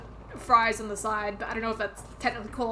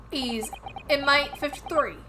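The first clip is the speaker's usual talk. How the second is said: put-on slow "He's inmate fifty-three" in a shaky British accent, "inmate" falling; attempted British accent; 4 semitones higher, 3 dB louder than usual. Player voicing the game's detective in a wobbly British accent. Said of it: "when I try to do a British accent".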